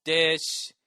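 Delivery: slow, solemn mass chant; priest intoning. Retold or imitated. Altar boy recalling the priest at mass, slow solemn intoning. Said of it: "what prayers you're supposed to say".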